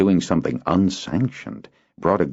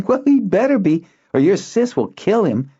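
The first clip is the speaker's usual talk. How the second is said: put-on high, louder, playful boy's voice; teasing boy; 4 dB louder than usual. Boy teasing friend about his sister, playful. Zinar teasing after laugh.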